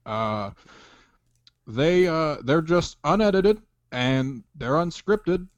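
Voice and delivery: Obama impression. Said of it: "white Barack".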